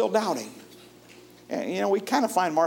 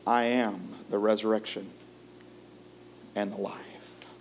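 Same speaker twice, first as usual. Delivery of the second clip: soft reverent quote; 8 semitones lower, 8 dB quieter than usual. Acted. Preacher repeats Jesus' words.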